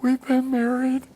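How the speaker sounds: put-on high, loud proud boast of an old couple; bragging grandparents. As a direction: lay it on thick like a smug old-timer. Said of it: "they would always brag".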